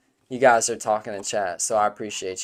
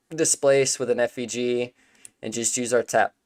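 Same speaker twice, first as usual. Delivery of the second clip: talking through hiccups; hiccuping while eating. Real, not acted. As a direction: hiccups breaking the speech. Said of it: "I got the hiccups".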